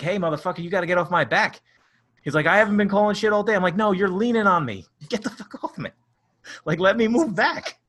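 snapping back at the umpire, hammed up; retelling a shouting match with the ump; retold yelling at ump.

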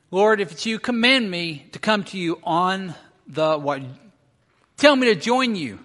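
lightly acted shout to the Lord; calling out. Peter yelling out from the boat to Jesus, calling. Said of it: "when Jesus yells this out".

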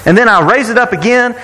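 put-on casually boasting in a Southern accent; boastful Southern Moses. Preacher imagines Moses bragging to Jethro, boastful Southern accent. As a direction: brag with a Southern twang, rattling off exploits. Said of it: "became more southern, but he just did, 'cause he's boasting".

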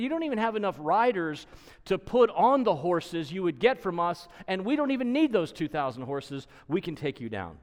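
making fun. Retold or imitated. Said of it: "he's making fun of them".

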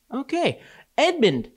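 high, slow hammed-up villain; mock villain voice. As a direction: sing it up high like a scheming witch. Voicing Edmund's inner witch moment.

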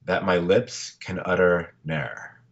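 slow, solemn poem reading; poem recitation. Shown as a demonstration. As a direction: read it slowly like a farewell poem. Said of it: "I wanted to end the podcast with a poem".

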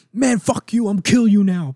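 mock angry Galactus. Galactus quoted cursing out Thor.

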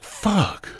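squeaky high "Fuck."; a sudden high-pitched curse of shock; high falsetto "Fuck." of dismay; retold dismay. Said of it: "I was like".

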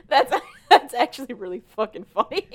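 real laughter breaking through the words; can't get it out for laughing; cracking up. Real, not acted. Cracking up at the story.

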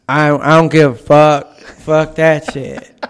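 Nate Diaz impression. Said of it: "the Nate Diaz one".

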